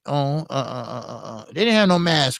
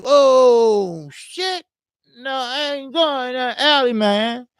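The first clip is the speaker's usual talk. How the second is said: high, strained oh shit then pleading; terrified; 8 semitones higher, slower than usual. Retold or imitated. Gun clicked back at him, high terrified pleading. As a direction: voice tight with panic.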